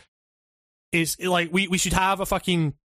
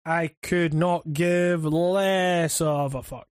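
deadpan dismissal; much slower than usual. Real, not acted. Dismissive reply about Pokemon.

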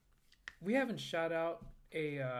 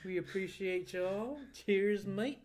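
sexy voice; 4 semitones higher, slower than usual. Acted. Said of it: "This is such a sexy voice".

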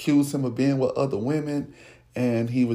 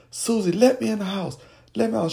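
dad yelling; 8 semitones higher than usual. Retold or imitated. Drunk dad yelling at door.

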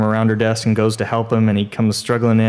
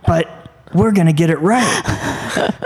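put-on old man's voice; 7 semitones higher, slower than usual. Old producer musing to the executives, lightly voiced old man. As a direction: play the old producer, wavering and slow. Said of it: "and he said".

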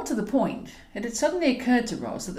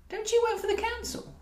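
Eleanor's voice, mocking; 13 semitones higher than usual. Elderly Eleanor scoffs at Roz, high and disbelieving. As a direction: scoff at her friend's guilt.

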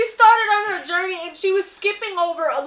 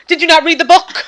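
mock-exasperated telling-off, raised and punchy; retold scolding; 2 semitones higher, 5 dB louder than usual. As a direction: hammer out a playful reprimand. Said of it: "Caught him and then was like".

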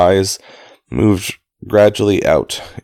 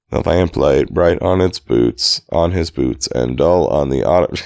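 flat, even, unhurried reading; uninflected reading. Shown as a demonstration. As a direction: read it with no inflection at all. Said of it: "trying really hard to not inflect at all".

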